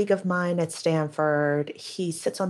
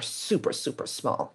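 whispered; 4 semitones lower, 7 dB quieter than usual. Real, not acted. Shrinking small first order.

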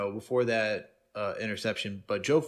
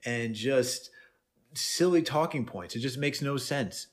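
higher, hammed-up mock pundit voice; higher mock commentator, slow in places; mocking the media; 5 semitones higher, slower than usual. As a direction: parody the talking heads spinning a story. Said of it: "it's like".

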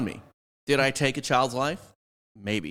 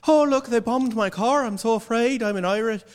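much higher, louder mock fright; hammed-up fearful victim; 13 semitones higher, 4 dB louder than usual. A fake victim hamming up his fear to the other side. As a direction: squeal it like a fake scared victim. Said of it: "you hop over and you're like".

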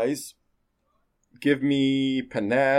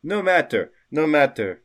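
dismissive noble; 5 semitones higher, 4 dB louder than usual. Acted. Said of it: "so the couple says".

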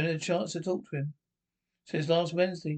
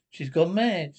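loud exasperation; 5 dB louder, slower than usual. Acted. Exasperated outburst.

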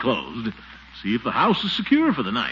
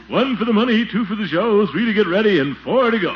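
higher, playful chanted count; playful countdown; 8 semitones higher, 5 dB louder than usual. Acted. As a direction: build up the game for the baby. Countdown game with baby.

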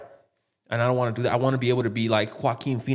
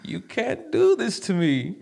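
villain shout; 14 semitones higher than usual. Retold or imitated. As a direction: yell it like a betrayed villain. Quoting Goblin lines, shouted.

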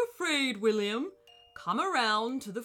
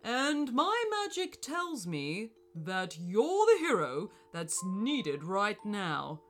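calm gentle wise voice. Acted. Wizard reassures boy.

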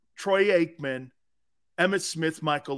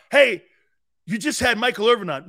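mocking listener voice; 4 semitones higher, 6 dB louder than usual. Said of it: "People are gonna go like this".

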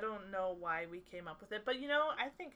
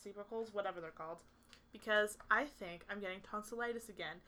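numb mouth. Real, not acted. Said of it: "I can't feel myself talk".

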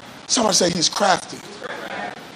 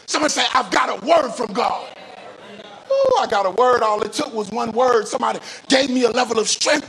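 fervent preaching; 5 semitones higher than usual. Real, not acted. Preaching at full force.

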